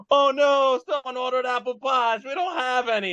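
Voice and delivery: high, lightly voiced worried cashier; flustered cashier. McDonald's cashier telling customer the pies are gone, high and fretful. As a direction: play the apologetic counter lady. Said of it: "She goes".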